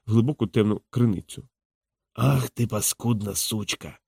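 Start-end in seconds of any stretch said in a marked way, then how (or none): 2.1-4.0 put-on slurred, slow drunk insult; quiet, slow tipsy menace; drunken drawl. A narrator's reading. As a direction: stretch the words out like a drunk. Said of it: "підхмелено розтягуючи слова".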